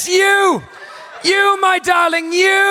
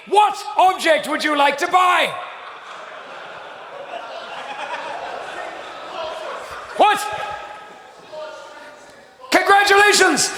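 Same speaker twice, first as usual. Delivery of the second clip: game narrator. Acted.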